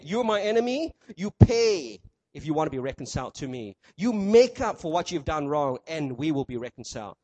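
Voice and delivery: stern accuser. Pretend. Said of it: "The world would have said".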